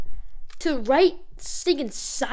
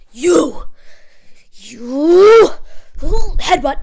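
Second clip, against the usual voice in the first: mock threat; 9 dB louder, much slower than usual. Real, not acted.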